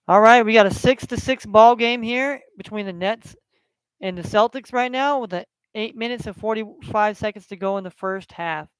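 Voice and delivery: casual sportscaster reading scores; relaxed sports-update announcer voice; play-by-play score update. Acted. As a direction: read out the scores like a live broadcast. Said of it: "live play-by-play broadcast".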